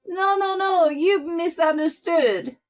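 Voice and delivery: high, loud, flustered excuse; panicked backpedal. A narrator's reading. Mother-in-law makes excuses to Zara, panicked. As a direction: talk fast to cover.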